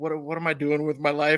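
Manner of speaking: usual speaking voice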